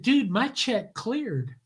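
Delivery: very slow, dry dude-to-dude put-down; deadpan retort. Retold or imitated. Author brushing off the director, slow and deadpan. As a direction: let each word land flat and slow. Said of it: "and I said".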